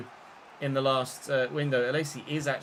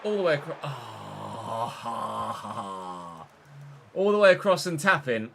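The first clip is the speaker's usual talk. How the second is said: excited commentary call; 2 semitones lower, 4 dB louder, slower than usual. Shown as a demonstration. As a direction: belt it out like a commentator. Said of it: "was the phrase that was about to leave my mouth".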